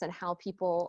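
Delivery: ordinary delivery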